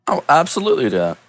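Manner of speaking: fast, brisk yes; quick agreement. Acted. Hero accepting the mayor's plan, fast and brisk. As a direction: rattle it off like a ready hero.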